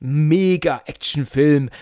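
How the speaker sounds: slow, drawn-out mock awe; mock old enthusiasm. Mocking how people once praised the film, slow mock awe. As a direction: stretch it out like a gushing nineties fan. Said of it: "Und damals hätte man gesagt".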